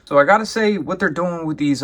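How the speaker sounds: high, loud burst of enthusiasm; excited. Real, not acted. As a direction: jump in with real excitement. Excited opener, much higher louder.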